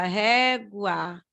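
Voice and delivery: "régua" drawn out as ré-gua, U gliding into A; barely sounded U. Shown as a demonstration. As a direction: say "régua" with a light U before the A. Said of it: "O U quase a gente não fala".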